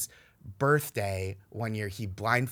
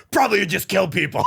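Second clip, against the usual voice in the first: mock deadpan retort; 7 semitones higher, 8 dB louder than usual. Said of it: "And I'm like".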